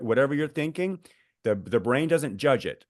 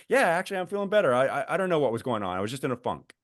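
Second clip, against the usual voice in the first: upbeat and relieved; 3 semitones higher, faster than usual. Retold or imitated. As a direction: play the relieved friend, chirpy. Cheerful reply after feeling better.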